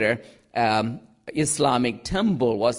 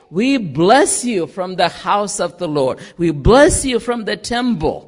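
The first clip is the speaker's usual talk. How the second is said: louder mock congregational response; unanimous crowd declaration; 4 semitones higher, 5 dB louder than usual. People answering the priest, declaring unanimously. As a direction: proclaim it, stressing the blessing. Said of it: "the people unanimously say".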